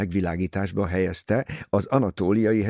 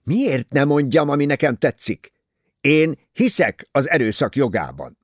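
put-on louder, heated defiance from a young man; angry retort; 5 semitones higher, 6 dB louder than usual. A narrator's reading. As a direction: snap back, provoked and hot. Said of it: "Ferguson felmérgelődött".

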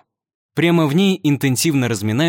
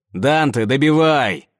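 demanding shout; 3 dB louder, slower than usual. Acted. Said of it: "требует он".

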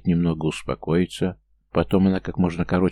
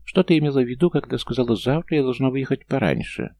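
high-pitched huffy gnome voice; a tiny offended creature defending himself; indignant gnome; 6 semitones higher than usual. A narrator's reading. Gnome protesting to Leona, high huffy voice.

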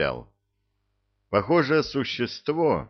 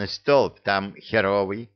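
authoritative; slower than usual. Acted. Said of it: "авторитетно заявил Витя".

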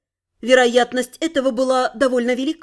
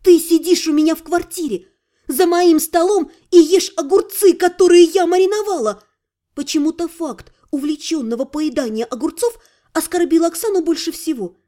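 indignant retort; 2 semitones higher than usual. Acted.

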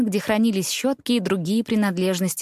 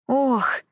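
startled gasp; 5 semitones higher than usual. A narrator's reading. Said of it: "выдохнул он".

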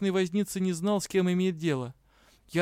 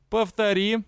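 louder, higher demand; demanding challenge; 5 semitones higher, 5 dB louder than usual. A narrator's reading. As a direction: dare him to say it again. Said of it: "потребовал". (дроу требует повторить оскорбление)

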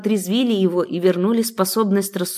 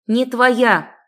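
tearful shout; 4 semitones higher, 4 dB louder than usual. A narrator's reading. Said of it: "выкрикнула, вытирая слёзы".

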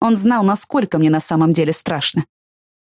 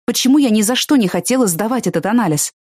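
usual speaking voice

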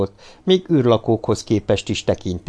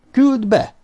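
impatient repeated order; 14 semitones higher than usual. A narrator's reading. Éppen most mondtam, vagy nem?.

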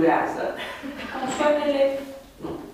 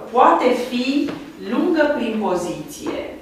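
slow dictation; slower than usual. Shown as a demonstration. Teacher dictating the rule slowly.

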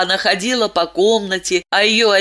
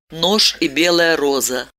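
ordinary delivery, nothing marked

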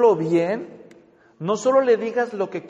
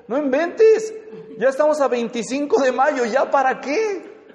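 higher-pitched, mock-exasperated comeback; exasperated retort; 5 semitones higher than usual. Partner answering a complaint made a month late, exasperated. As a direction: brush off the late complaint in disbelief.

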